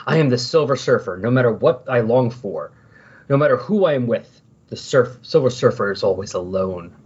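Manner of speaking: lightly acted dramatic monologue; solemn inner monologue, mildly hammed up, sinking at the end; Silver Surfer. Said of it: "internal monologues".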